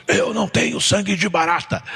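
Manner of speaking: leve imitação do pai indignado; pai falando. Retold or imitated. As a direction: cite o pai com um toque de indignação. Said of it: "Meu pai falava assim". (imitação leve do pai, em português)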